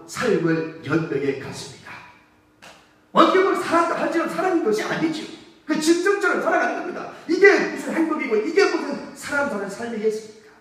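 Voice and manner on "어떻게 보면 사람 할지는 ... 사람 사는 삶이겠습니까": impassioned preaching. Real, not acted. Preacher's rising lament on beggar's life.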